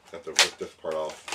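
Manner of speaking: mildly sarcastic, punching a word or two; feigned enjoyment of an annoying chore; dry mock enthusiasm. Real, not acted. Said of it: "That's sarcasm".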